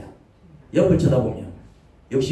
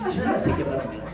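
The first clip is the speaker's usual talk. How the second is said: hushed threat; 4 dB quieter than usual. Retold or imitated.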